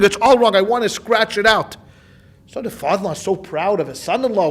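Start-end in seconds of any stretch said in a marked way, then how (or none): 0.0-1.8 louder, indignant outburst over the text; mock scream. Son-in-law objecting to the Gaon's emendation, mild mock yell. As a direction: cry it's wrong, half-shouted. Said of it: "and he's screaming".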